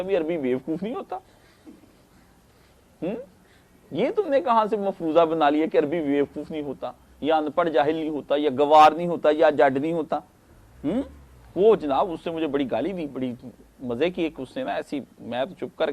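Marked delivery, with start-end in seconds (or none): 0.0-11.0 retorting challenge. Retold or imitated. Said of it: "میں نے اسے پوچھا".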